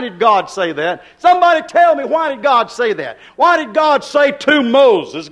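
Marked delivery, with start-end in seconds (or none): 1.2-5.3 raised, ringing call to the crowd; preacher's holler. Real, not acted. Preacher hollering to wake a sleepy congregation, loud. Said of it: "Have to holler at you a little bit".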